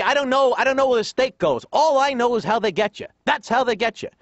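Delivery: high, sarcastic imitation of father; indignant dad. Dad to son about steak, sarcastic indignation. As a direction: protest with rising comic exasperation. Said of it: "My dad goes".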